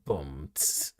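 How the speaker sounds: low mouthed boom with a sharp tss; imitated sound effect. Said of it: "It was like".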